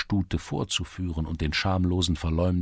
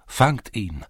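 raised call to catch him; shouting lads; 4 semitones higher, 4 dB louder than usual. A narrator's reading. Lads in the lane shouting to catch the thief. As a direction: call out after the runaway. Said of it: "schrien einige Burschen".

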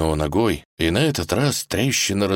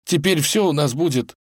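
halting, raised emotional voice; reassuring; 8 semitones higher than usual. Acted. Rescued Ivan promises Vasilisa all will be well, reassuring. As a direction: promise it in short, breath-spaced phrases.

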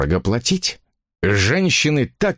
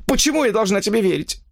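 higher woman's voice, doubting and gloomy; gloomy suspicious; 12 semitones higher than usual. Acted. Mistress doubting her lover, gloomy and suspicious. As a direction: say it with dark suspicion. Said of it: "Её голос звучал мрачно и подозрительно".

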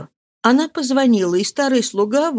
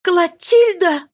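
long, high cry of the daughter's name; drawn-out desperate call; mother crying out for her lost child; 10 semitones higher, 4 dB louder, much slower than usual. Acted. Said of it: "закричала Мари".

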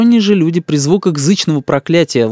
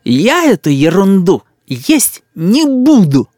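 put-on slow, high child's grand pronouncement; solemn declaration; 6 semitones higher, 3 dB louder, slower than usual. A narrator's reading. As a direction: announce it like a tiny king. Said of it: "торжественно закончил". (торжественный детский отказ)

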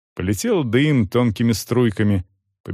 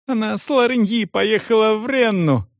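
much higher frantic blurt; desperate scream; 11 semitones higher than usual. A narrator's reading. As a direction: give away her mistress in panic. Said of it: "орала Франческа".

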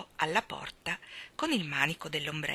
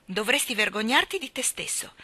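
stern; 4 semitones higher, 3 dB louder than usual. Acted. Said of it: "disse severamente Mary Poppins".

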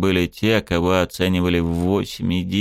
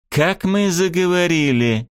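sharp, higher, slowed sneer; suddenly angry; 10 semitones higher than usual. A narrator's reading. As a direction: bite back with sudden anger. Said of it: "неожиданно зло сказала Сирена".

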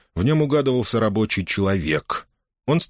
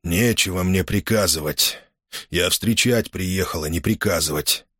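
hoarse reply. Acted. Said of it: "он хрипло ответил".

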